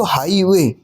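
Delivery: हाईवे with a stretched, stressed हाई; weighted हाई, lighter वे in हाईवे; stress on first syllable. Shown as a demonstration. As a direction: lean on the first part of हाईवे. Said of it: "यहाँ पे जोर दिया जा रहा है".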